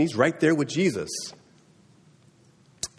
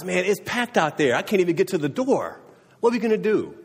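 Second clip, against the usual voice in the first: higher-pitched, lightly acted exasperation; mock dismay; 6 semitones higher than usual. Friends carrying a man find the house packed, lightly acted dismay. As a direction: voice the friends' dismay at being stuck.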